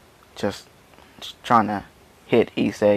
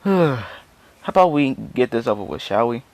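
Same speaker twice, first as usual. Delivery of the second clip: bored yawning; 2 semitones higher than usual. Acted. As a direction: act out a bored, unimpressed opponent. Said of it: "he's yawning like".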